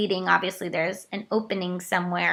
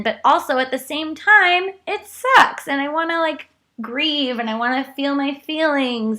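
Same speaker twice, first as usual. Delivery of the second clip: rising upset; 5 semitones higher, 3 dB louder than usual. Real, not acted. Emotional outburst about grieving.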